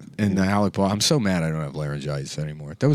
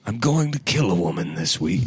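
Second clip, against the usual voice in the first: lightly voiced movie-star impression; deliberate, resonant actor's delivery; Alec Baldwin. Comic as actor confessing, lightly impersonated movie star. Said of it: "to sound like Alec Baldwin".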